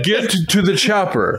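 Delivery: lightly hammed-up Austrian accent; Arnold Schwarzenegger. Imitating a hack comic's Arnold catchphrase, mock Austrian accent. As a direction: hack comedian's Austrian action-hero accent. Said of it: "talk to hack comedians".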